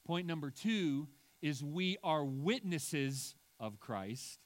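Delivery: slow down and lean on "witnesses"; preacher stressing "witnesses". Shown as a demonstration. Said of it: "The emphasis in the second point is witnesses".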